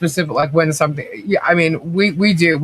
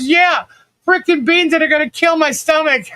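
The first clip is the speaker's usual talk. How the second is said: mock grumbling husband; 12 semitones higher than usual. Husband grumbling about gift beans.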